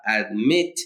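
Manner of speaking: "admit" with the stress on MIT, pitched low; stress on last syllable. Shown as a demonstration. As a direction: land on the final syllable of "admit". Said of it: "el acento recae en la última sílaba".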